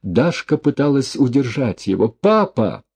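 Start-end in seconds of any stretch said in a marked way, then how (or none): 2.1-2.8 desperate cry. A narrator's reading. Daughter over dying father.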